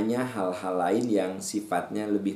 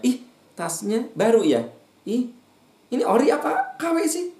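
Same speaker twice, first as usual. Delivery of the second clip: high, loud prying voice; nosy busybody; 14 semitones higher, 3 dB louder than usual. Acted. Preacher mimics neighbour prying about a motorbike loan, loud and high.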